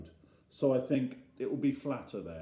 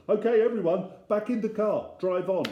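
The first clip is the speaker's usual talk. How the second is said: urgent order; 10 semitones higher, 6 dB louder than usual. Acted. Dad ordering family back into car.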